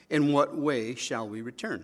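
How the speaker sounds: mildly sarcastic comeback question; understated sarcasm in a quoted retort. Acted. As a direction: ask it as a mock-innocent challenge. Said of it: "That's sarcasm".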